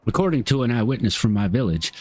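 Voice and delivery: light Southern twang on an NPC's lines. Acted. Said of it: "that's the voice I'm going with".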